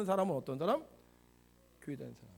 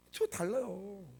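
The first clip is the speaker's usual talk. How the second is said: usual speaking voice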